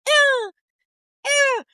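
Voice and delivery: very high falsetto "ew"; girl's exertion squeal. Retold or imitated. Female recruit straining at hip thrusts, mock high squeal. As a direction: imitate a girl's repeated squeaky effort noise. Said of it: "his universal girl impression".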